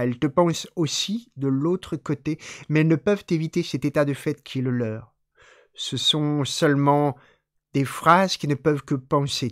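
measured, evenly driven recitation; poem reading. Acted. Reading an experimental poet's text to listeners, measured poem recitation. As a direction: read the poem steadily, phrase by phrase.

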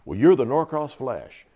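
slow, loud, lightly imitated Southern officer; strong Southern accent. Commander handing out a nickname, Southern accent. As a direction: proclaim it slowly in a Southern accent. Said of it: "in a real strong Southern accent".

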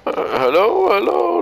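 high rising hello; sing-song rising hello; calling out. Real, not acted.

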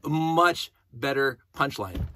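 stretched, slow "Much better punchline"; slow, savoring emphasis. Real, not acted. Fan savoring his own rewrite, slow and emphatic. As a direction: linger on "Much" with relish.

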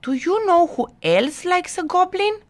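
high, quick, teasing question; small creature piping up from the dark; high-pitched, rapid goblin voice; mysterious cave voice. A narrator's reading. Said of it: "said a voice from the back of the cave".

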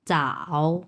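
চাও in a low, dipping third tone; third tone demo. Shown as a demonstration. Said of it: "তিন number tone". (তৃতীয় টোনে চাও)

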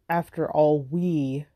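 "we" singled out after "After all"; stress on WE. Shown as a demonstration. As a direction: lean on "we" as the key word. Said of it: "if we emphasize each word".

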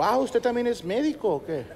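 imitated offended doctor; mock annoyed doctor. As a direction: challenge the patient, mildly huffy. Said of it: "el vato se enoja y me dijo".

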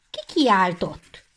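head hunter's stern question. Acted. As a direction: demand an answer sternly. Head hunter demands answer.

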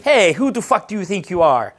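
put-on outraged challenge; mock indignation. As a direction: imitate an affronted girl calling him out. Acts out offended girl confronting him.

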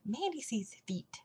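whispered aside, almost a secret; a soft whispered confession. Real, not acted. Confiding about her weight loss.

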